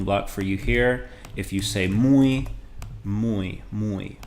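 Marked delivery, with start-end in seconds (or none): 1.9-4.2 muy sounded out carefully for learners; slow sounded-out Spanish word. Shown as a demonstration. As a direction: spell out muy as one gliding syllable, moo-ee. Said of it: "like moo, like a cow, and then E, but all one syllable".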